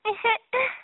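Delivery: bubbly laugh. Acted. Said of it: "ماهی قلب قلب خندید".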